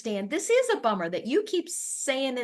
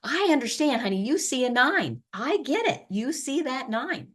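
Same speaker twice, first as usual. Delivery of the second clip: empathetic; 4 semitones higher than usual. Shown as a demonstration. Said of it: "puts you and the individual on the same team".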